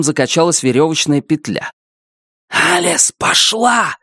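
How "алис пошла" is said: high yell held back to a hiss; whispered yell. Acted. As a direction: shout without raising the volume. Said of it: "шёпотом заорал Бенито".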